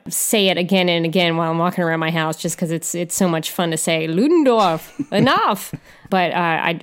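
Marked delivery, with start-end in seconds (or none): 4.1-5.7 playful, laughing German-accent imitation, a bit higher; mock-stern German order, breaking into a laugh; bad German accent. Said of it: "I have a terrible accent, uh, German accent".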